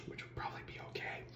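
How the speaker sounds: hushed joke to the listener; breathy side comment; whispered aside. Real, not acted. Whispered aside inside the quote.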